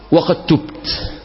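almost whispered, drawn out; hushed confession. Acted. Dying son confessing to his mother, hushed and whispered. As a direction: let the repentance barely come out.

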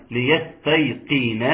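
slow, careful recitation; Quran recitation. Shown as a demonstration. Teacher moves on to the next word, slow careful recitation.

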